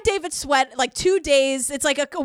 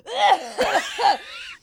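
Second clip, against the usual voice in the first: mock heaving gasp; 7 semitones higher than usual. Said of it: "heaving and out of breath".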